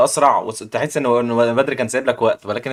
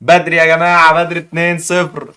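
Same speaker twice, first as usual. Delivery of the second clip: excited hype; 3 semitones higher, 5 dB louder, slower than usual. Real, not acted. Hyping a player's win.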